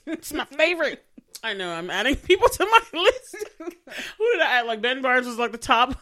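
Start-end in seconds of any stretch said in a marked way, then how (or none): 0.1-1.0 swooning fan gushing about her favorite. Real, not acted. 1.7-4.7 laughing through the words, higher and louder; a friend giggling as she lists her celebrity crushes. Real, not acted. Giggling about her crush list.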